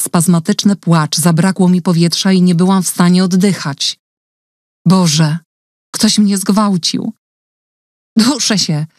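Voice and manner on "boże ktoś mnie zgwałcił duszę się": wheezing rasp. A narrator's reading. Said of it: "wycharczałam do Rafaeli".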